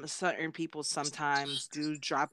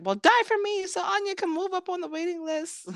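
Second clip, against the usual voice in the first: high, fast, louder hammed-up demand; mock heartless demand; 13 semitones higher, 5 dB louder, faster than usual. Imagined killer answers her pleading victim, mock heartless demand. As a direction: demand it in an over-the-top put-on voice.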